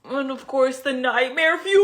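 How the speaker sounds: bright, punchy announcement; excited. Real, not acted. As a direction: sell the reveal with energy. Retake of intro line.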